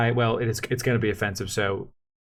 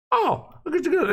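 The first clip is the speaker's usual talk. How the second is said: much higher, distant, broken-up words; garbled robot phone voice; slower than usual. Retold or imitated. Husband imitating girlfriend's glitching phone voice. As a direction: sound cut off like a bad line. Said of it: "It sounds like a robot".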